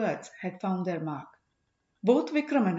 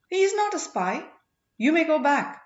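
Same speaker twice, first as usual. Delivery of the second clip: high, loud and cutting; furious dismissal; 8 semitones higher, 5 dB louder than usual. Acted. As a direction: send him away in fury. Furious princess dismisses commander.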